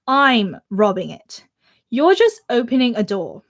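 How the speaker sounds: amateur British accent reading aloud; a book passage in put-on British English. Shown as a demonstration. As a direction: read it in your best imitation British accent. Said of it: "in a British accent or, like, my best imitation".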